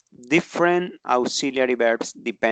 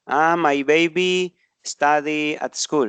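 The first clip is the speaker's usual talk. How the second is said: mistaken example; 3 semitones higher, slower than usual. Shown as a demonstration.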